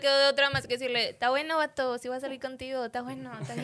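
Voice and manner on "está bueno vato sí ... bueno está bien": put-on northern Mexican accent. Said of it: "Así con acento norteñote".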